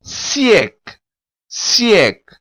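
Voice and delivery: siècle ending on a sounded k; siècle, stress and a clear final k; Creole word. Shown as a demonstration. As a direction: say siècle as "see-EK". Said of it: "Note que o K ... são pronunciáveis".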